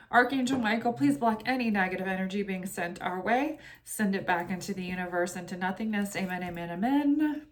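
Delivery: steady, earnest invocation to the guides; prayer. Acted. Reader praying to spirit guides before the tarot reading, calm prayer. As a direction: pray it calmly, fading toward the amens.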